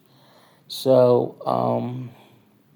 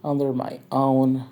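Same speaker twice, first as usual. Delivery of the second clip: higher, rushed dancer's voice; mock dancer voice; 6 semitones higher, faster than usual. The narrator quotes the girl asking for another tip, higher and fast. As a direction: rattle off her tip request higher and fast. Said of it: "She went like".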